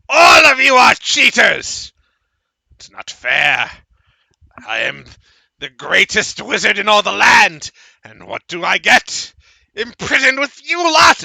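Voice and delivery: high, crying rage at everyone; imprisoned wizard raging and smashing plates; screaming tantrum. Acted. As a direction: wail it like a petulant old wizard. Wizard smashing things, ranting.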